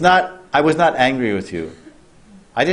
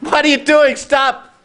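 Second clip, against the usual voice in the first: shocked sage; 10 semitones higher than usual. Acted. Sage Brihaspati fending off the maidservant, shocked high outburst. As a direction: recoil in outrage, voice shooting up. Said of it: "He said".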